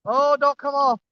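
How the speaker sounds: straining, breathless, high and excited; struggling to reel in a heavy fish; fighting a fish. Real, not acted. Struggling with fish near bank.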